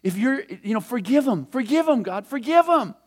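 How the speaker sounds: Moses begging God, pitch rising as he pleads; pleading. Retold or imitated. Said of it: "He's going".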